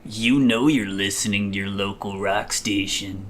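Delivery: lightly voiced late-night rock DJ; classic rock announcer. Shown as a demonstration. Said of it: "talking in a deep, sleazy, raspy announcer voice".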